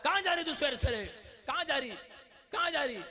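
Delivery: high, fast scolding; husband nagging his wife; mock scolding. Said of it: "औरत को बोल रहा है".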